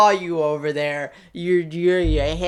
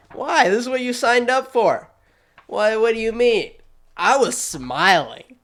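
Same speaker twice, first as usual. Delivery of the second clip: mock protest; 5 semitones higher than usual. Real, not acted. Mock arguing with council member.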